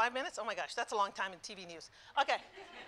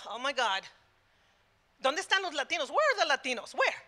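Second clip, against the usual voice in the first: exasperated outburst, higher as it builds; retold fury; 4 semitones higher, 3 dB louder than usual. Wife watching TV with her husband, retelling her furious outburst. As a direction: re-enact mounting outrage at what's missing. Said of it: "I'm, like, getting furious".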